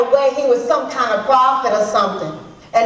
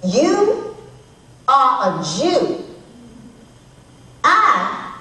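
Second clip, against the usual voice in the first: slow, indignant challenge in separated pieces; angry, spitting words; slower than usual. Acted. Samaritan woman rebuking a Jew at the well, angry. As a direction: spit it out piece by piece with contained anger. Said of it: "angry words that I spit at him".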